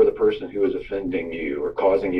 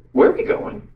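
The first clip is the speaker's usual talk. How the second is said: put-on small, high child's voice; Julia. Daughter asks Dad from the back seat, imitated high little voice. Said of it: "I hear Julia's voice in the back seat".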